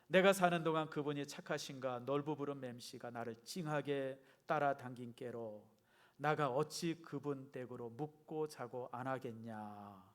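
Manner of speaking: put-on Jeolla accent, slow stretched line endings; Jeolla dialect. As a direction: read slowly like a Jeolla local. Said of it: "이게 전라도 버전이랍니다". (느릿한 전라도 사투리로)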